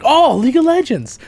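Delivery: high, loud, gushing excitement; thrilled fan reaction. Retold or imitated. Other people hearing League of Legends, thrilled. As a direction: squeal it like a delighted fan. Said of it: "other people are like".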